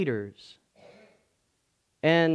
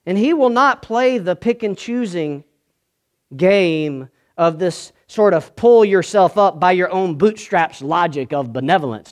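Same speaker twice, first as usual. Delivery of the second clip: raised, emphatic sermon voice; forceful preaching; 6 semitones higher, 9 dB louder than usual. Real, not acted. Preacher contrasting God's generosity with our narrative, forceful preaching. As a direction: preach it out firmly and loudly.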